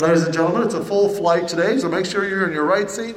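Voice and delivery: announcer voice on a full flight; flight attendant announcement. Retold or imitated. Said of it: "They came up".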